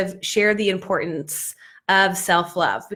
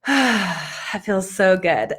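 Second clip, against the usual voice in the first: breathy sigh of relief, then slow, savoured words; blissful sigh; much slower than usual. Acted. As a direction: sigh it out slowly, deeply contented. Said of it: "already I'm like".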